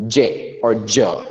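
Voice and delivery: "J or J" sounded out slowly, one at a time; J sound for D plus Y. Shown as a demonstration. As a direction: say "J or J" as a slow isolated j sound. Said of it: "it is pronounced as".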